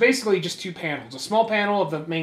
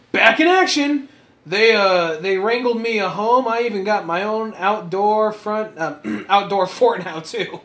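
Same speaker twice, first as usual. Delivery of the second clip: excited Kyle; 4 semitones higher, 4 dB louder than usual. Acted. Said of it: "my character coming in".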